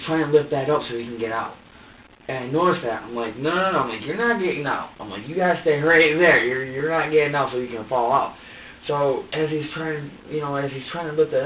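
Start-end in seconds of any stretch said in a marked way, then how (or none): 3.4-3.8 firm no. Retold or imitated. Stopping baby climbing out. 4.0-8.4 stern warning. Retold or imitated. Stern quote to baby in jumper.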